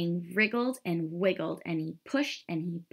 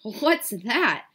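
louder, higher storybook horse; hooting horse; 5 semitones higher, 7 dB louder than usual. A narrator's reading. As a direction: hoot it out as a horse, lightly voiced. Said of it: "hooted the horse".

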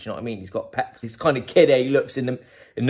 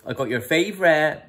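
posh sing-song; 6 semitones higher than usual. Retold or imitated. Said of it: "He goes".

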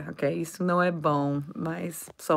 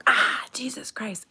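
whispered curse; 5 semitones higher than usual. Retold or imitated. Acting someone swearing after bumping.

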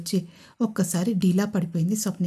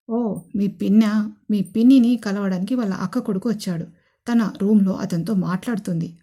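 voiced father; 4 dB louder than usual. Father answering about the aunt.

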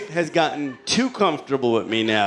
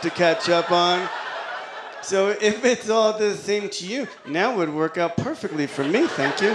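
mock polite refusal; 3 semitones higher than usual. Overly polite refusal to wife.

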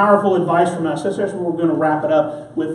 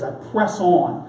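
slow emphasis; slower than usual. Shown as a demonstration. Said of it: "I want you to hold on to that phrase".

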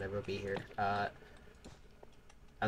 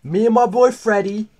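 mock British lad picking a fight, high and loud; loud mock British pub-brawl challenge; mock British shouting; 4 semitones higher, 11 dB louder than usual. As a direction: bellow like a rowdy British yob, "mate!". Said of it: "I'm British".

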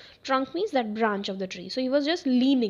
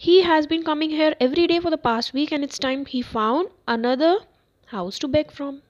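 annoyed mother; 4 semitones higher, 5 dB louder, faster than usual. Acted. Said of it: "cried his mother".

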